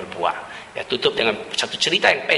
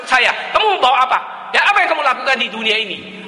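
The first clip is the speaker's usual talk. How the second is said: a lightly voiced sad old woman, higher and quickening; mildly acted worried mistress, pitched up; dying woman; 11 semitones higher than usual. Dying mistress confides her fear to the servant, lightly acted. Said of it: "Lalu pembantunya bilang".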